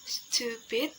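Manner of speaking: "stupid" stretched into two clear syllables; syllables drawn out. Shown as a demonstration. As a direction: say "stupid" slowly for learners. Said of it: "the syllable is".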